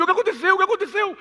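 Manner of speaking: very high, loud, frantic cry; hammed-up panicked shouting; panicked parents. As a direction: imitate alarmed parents rushing over. Parents run to him in panic.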